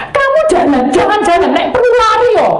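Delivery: high, loud urging call; rousing exhortation. Acted. Preacher voicing Paul urging believers to run, loud and high. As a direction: spur them on to run. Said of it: "Paulus berkata".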